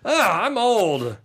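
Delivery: high, slow, drawn-out groan; mock lament. Host laments feeling old on a college campus, high mock groan. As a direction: moan it with exaggerated self-pity.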